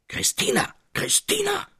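very high, ringing call through the house. A narrator's reading. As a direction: bellow her name across the house. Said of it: "schrie er dann, daß es weit im Hause schallte".

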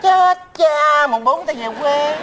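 mock dismay. Comic repeated excuse.

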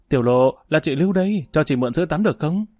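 man faking a woman, nose pinched; pinched-nose woman's voice. Acted. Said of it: "bóp mũi giả giọng nữ".

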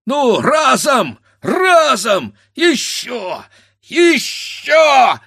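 loud, high strained heaving cries; straining effort. A narrator's reading. Grandfather heaving the heavy pot, straining shouts. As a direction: heave with all your strength.

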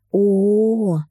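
put-on drawn-out amazed oh from a little girl; childlike wonder. A narrator's reading. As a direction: marvel at the flowers like a child. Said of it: "округлились глазки Доминики".

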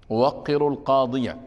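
القاضية ending in an audible "-iya" instead of a silent stop; teaching pronunciation. Shown as a demonstration. Teacher repeating the example for students, teaching pronunciation. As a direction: sound the final "a" of القاضية. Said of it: "وهذا النطق تعليمي".

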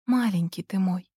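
soft, hushed and tender. A narrator's reading. Mother hushing her crying son tenderly. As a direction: soothe him gently.

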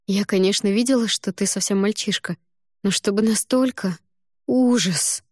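hammed-up groan of dismay. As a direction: moan it in comic dismay. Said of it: "простонала я".

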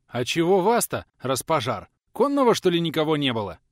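high, loud, incredulous call back; why on earth did they send you; surprised questioning. Acted. Old man puzzled, shouting back.

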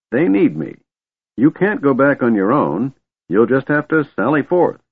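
put-on high-pitched old man's instructions; insistent old man. A narrator's reading. Old man sends dragon off alone, insistent. Fizban dismisses his dragon.

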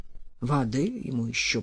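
big man mutters with contempt about water; contemptuous mutter. Acted. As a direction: sneer it under your breath. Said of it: "пробормотал здоровяк презрительно".

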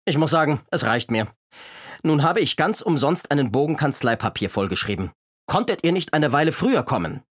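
a hint of a fussy official scolding; stern Dimpfelmoser. The constable complains to Kasperl, mildly stern. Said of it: "ein strenges Amtsgesicht".

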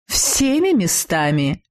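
slow, dry helpful jab; slowly, with sly courtesy; obliging dig. Acted. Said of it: "любезно подсказал ему чешуйчатый".

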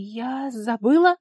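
slow, hesitant questioning reply; unsure excuse. A narrator's reading. Daughter inventing an excuse to her father, slow and unsure. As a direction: try the excuse out uncertainly.

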